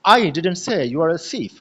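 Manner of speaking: slow sentence with I hit hardest; slow demonstration, strongest emphasis on I; stress on I. Shown as a demonstration. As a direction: punch the opening word I, slowly. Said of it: "ये जो I है".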